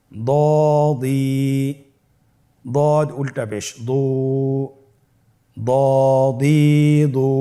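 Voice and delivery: measured letter-by-letter recitation with long-held vowels; spelling out. Shown as a demonstration. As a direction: spell it out for pupils to repeat, stretching each final syllable. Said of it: "উচ্চারণ করুন".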